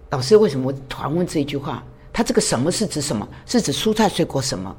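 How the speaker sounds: soft, fast puzzled self-questioning; puzzled inner thoughts. Retold or imitated. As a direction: mutter it like a student second-guessing the teacher.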